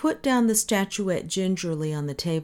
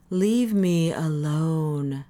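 even slower strained plea; more pleading; much slower than usual. Acted. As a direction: stretch it, near breaking. Parisi repeats, more strained.

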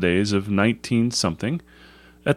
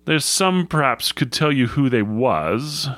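lightly voiced rustic shepherd, earnest; a hint of a grave old countryman; 4 semitones higher than usual. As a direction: explain firmly in mild country dialect. Shepherd's dark account.

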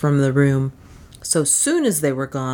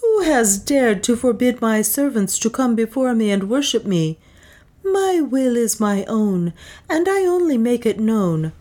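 high, commanding anger; angry; 6 semitones higher than usual. A narrator's reading. Juana rebuking the priest for barring her servants, angry. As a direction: rebuke the priest with cold authority. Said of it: "spoke angrily".

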